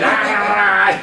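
high, loud blunt "Ah!"; sharp exclamation. Shown as a demonstration. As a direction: snap it out Sichuan style. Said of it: "it's like".

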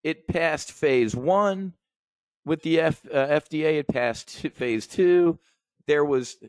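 high, eager hyped-up pitch; excited tip. Retold or imitated. Trader hyping a biotech stock to a friend: eager and high. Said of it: "He's like".

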